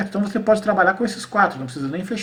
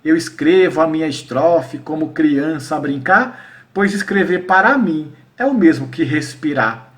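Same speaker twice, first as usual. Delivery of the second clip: measured, slightly louder cordel recital; slow-paced poem reading; verse recitation; 3 dB louder, slower than usual. Shown as a demonstration. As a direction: recite the stanza with deliberate rhythm. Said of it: "eu vou dar um exemplo aqui".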